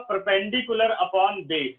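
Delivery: spelled out slowly for dictation; slow and deliberate. Shown as a demonstration. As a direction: dictate each word slowly. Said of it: "लेकिन आपको P by B shortcut use नहीं करना है।".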